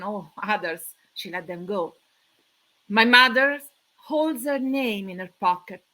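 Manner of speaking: measured poetry reading with pauses between short phrases; solemn spoken poem, unhurried phrasing; poem recitation. Acted. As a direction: recite it line by line, letting each loss land. Reads her poem aloud.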